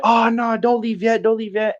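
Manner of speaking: put-on high-pitched girls' plea; imitating drunk girls pleading; imitated pleading girls. Imitates girls begging them to stay.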